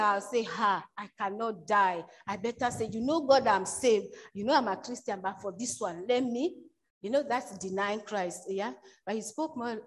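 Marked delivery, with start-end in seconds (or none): 0.4-6.5 mock pleading. Believer bargaining with God under threat.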